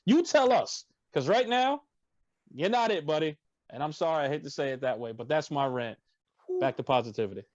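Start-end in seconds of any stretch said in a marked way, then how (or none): 0.1-3.4 challenging call-out. Acted. Challenging the player in rant.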